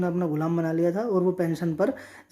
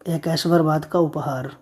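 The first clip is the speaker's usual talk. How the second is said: slow dictation; 4 dB louder than usual. Shown as a demonstration. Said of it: "मुहादिनी का मतलब क्या होता है?".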